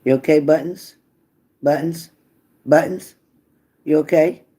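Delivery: high, loud coaxing dog-owner voice; pet talk. Real, not acted. Owner calls her sleepy dog Buttons, high coaxing pet talk. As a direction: coo up at the dog to wake her.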